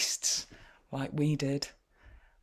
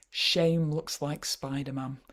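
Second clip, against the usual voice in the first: slow title reading; 3 dB louder than usual. Shown as a demonstration. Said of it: "reads title slowly".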